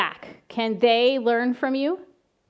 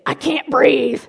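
loud, put-on child protest, half laughing; whiny child; 4 semitones higher, 9 dB louder, slower than usual. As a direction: play the stubborn kid refusing to calm. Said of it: "And she'll say".

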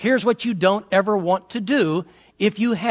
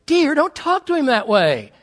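mother pleading; 6 semitones higher than usual. Retold or imitated. Mother defends son.

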